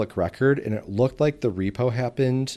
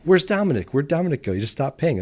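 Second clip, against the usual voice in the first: higher-pitched, louder retold puzzlement; puzzled quote, pitched up at the start; mock bewilderment; 7 semitones higher, 4 dB louder than usual. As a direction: act out wondering where he went, voice up. Retelling their puzzled search for tenant.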